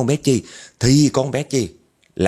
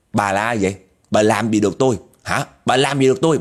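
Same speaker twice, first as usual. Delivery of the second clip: defiant challenge. Acted. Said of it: "Nó hung dữ lắm kìa".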